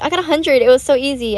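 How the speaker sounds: mildly excited, reliving good news; happy brag. Retold or imitated. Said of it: "I got so happy".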